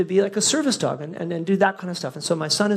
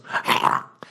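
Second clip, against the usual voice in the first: imitated dog gasp. Imitates dog's sound after "then goes.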